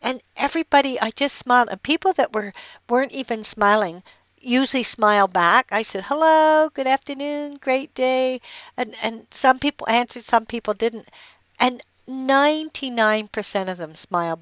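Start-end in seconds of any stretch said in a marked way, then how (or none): 6.0-8.4 sunny hello to everyone you pass; cheery greeting. Retold or imitated. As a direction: greet strangers with a big smile in the voice. Greeting strangers on a walk.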